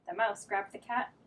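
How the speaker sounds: lively read-aloud storytelling; reading to children. A narrator's reading. Teacher reading a picture book to children. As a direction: read it like story time for little kids.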